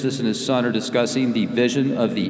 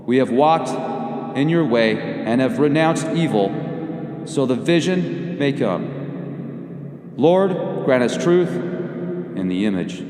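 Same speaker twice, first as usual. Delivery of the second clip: solemn prayer. Acted. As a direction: intone it like a devout invocation.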